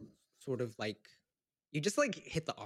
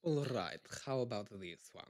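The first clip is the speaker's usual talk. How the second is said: lightly Russian, rolled R; Russian accent; 3 semitones lower, 3 dB quieter than usual. Shown as a demonstration. Actor trying the line as Russian, Russian accent. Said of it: "I thought I just did one".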